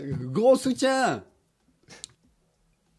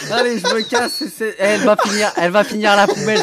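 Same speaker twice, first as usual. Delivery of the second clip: laughing; 2 semitones higher, 4 dB louder than usual. Real, not acted. Disgusted loud laughing rant.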